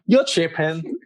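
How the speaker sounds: slangy put-on American accent; British speaker playing American, amused. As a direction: toss it off in mock American. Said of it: "in your best American accent".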